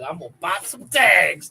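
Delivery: loud imitation of bluegrass twang; mock twang. Quoting the bluegrass band's cover, twangy. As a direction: lean hard into the serious twang. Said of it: "sang every word with the most serious twang".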